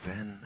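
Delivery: "then" said as "ven". Shown as a demonstration. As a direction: start "then" with a Cockney V. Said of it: "the V sound on the T H words".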